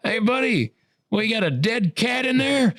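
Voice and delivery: lightly voiced gruff janitor at the door. Janitor voiced in retold scene.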